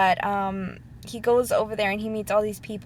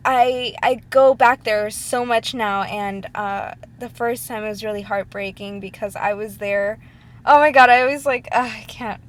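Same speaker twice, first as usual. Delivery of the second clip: tearing up; 6 dB louder than usual. Real, not acted. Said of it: "this is why I can't make these kind of videos, 'cause I start crying".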